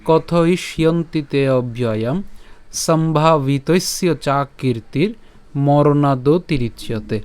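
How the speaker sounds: slow, measured Sanskrit shloka reading; careful scriptural recitation; verse recitation. Shown as a demonstration. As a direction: recite the verse slowly with long drawn vowels. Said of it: "আজকের শ্লোকটি হলো".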